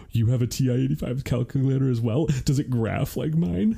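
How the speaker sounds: gasp, then bright eager rising question; mock excited nerd. Husband imagining a sarcastic reply to intruder, mock delight. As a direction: gush like a fellow calculator fan. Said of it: "everything in my bones afterward that was like".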